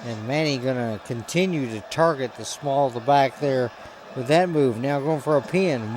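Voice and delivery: usual speaking voice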